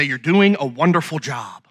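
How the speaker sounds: low, restrained imitation of an annoyed wife; frustrated, angry praise. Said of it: "she can look at me frustrated and angry".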